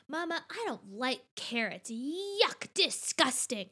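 lightly voiced picky child; imitated disgusted child. Child refusing carrots at the grocery, mock disgust. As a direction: put a hint of yuck into a child's complaint. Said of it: "Indiana was like".

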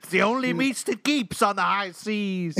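high pirate voice breaking into laughs; mock pirate giggling through; laughing pirate. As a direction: try to stay in character while cracking up.

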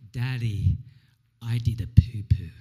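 put-on whispered toddler voice, hushed and proud; child's secret whisper; little girl whisper. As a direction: whisper it like a small child confessing. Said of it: "she says to me with a big grin".

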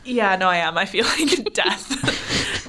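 croaky and drained from illness; sick. Real, not acted. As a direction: talk like you feel like death. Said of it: "are you actually okay? 'Cause you look like you're pretty much dying".

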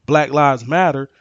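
each word of Black Lives Matter pressed home, the loudest on Matter; with emphasis. Shown as a demonstration. Man insisting what the slogan truly means, with emphasis. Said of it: "with emphasis".

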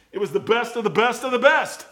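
laughing while preaching it. Real, not acted. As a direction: let the laugh come through the words. Laughing through the punchline.

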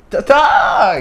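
seruan pendek melengking keras; loud, high mock exclamation; seruan tiruan. Meniru reaksi orang pada gerakan tangan. (teriakan tiruan bernada tinggi)

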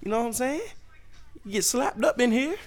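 put-on high, hostile yell at a staring kid; mock yelling at a kid. Comedian yelling at a staring child in the store, high angry.

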